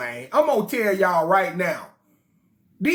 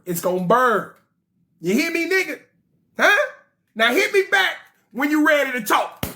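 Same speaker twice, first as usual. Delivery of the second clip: cocky voicemail boast. Acted. Olalu's voicemail demands.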